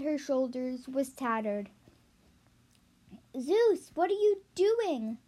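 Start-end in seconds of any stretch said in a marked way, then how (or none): 3.4-5.2 higher, startled question; shocked. Acted. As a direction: gasp it out in shock. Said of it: "Demeanor asked, shocked".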